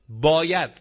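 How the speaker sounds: باید said loud and alone, falling firmly; emphatic must. Real, not acted. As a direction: hit باید hard as a one-word command.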